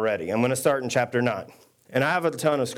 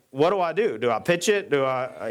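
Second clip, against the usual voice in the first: irritated pitcher; 2 semitones higher than usual. Retold or imitated. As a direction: imitate a pitcher at a loss, a touch irritated. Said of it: "the pitcher gets irritated".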